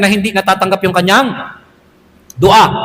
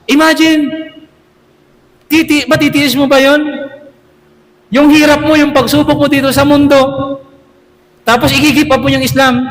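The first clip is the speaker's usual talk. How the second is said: higher, urgent hellfire warning; intense warning; 5 semitones higher than usual. Acted. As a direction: shake them with the picture of hell. (matinding babala tungkol sa impyerno)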